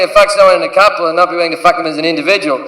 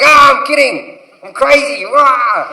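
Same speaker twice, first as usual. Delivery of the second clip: mock crazy cover-up; 4 semitones higher, slower than usual. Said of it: "by going".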